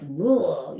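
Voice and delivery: low, imitated "ugh" of being sick; mock retch. Owner predicting dog gets sick, imitated retch. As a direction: act out a dog throwing up.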